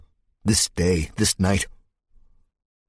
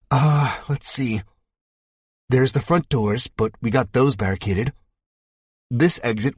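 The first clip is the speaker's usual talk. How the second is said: slightly higher, thinking aloud; lightly voiced young woman; 6 semitones higher than usual. Abby answering the narrator, lightly voiced and thoughtful. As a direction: recall the exits one by one.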